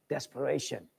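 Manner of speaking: soft, low one-word punch; hushed single-word emphasis; quiet emphasis. Real, not acted. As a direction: drop the voice to land it.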